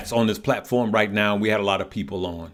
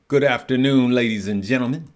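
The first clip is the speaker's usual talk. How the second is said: grand, a touch louder welcome to the crowd; announcer voice; 2 semitones higher, 3 dB louder than usual. Pretend. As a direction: boom it out like a ringside announcer. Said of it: "Sound like an announcer".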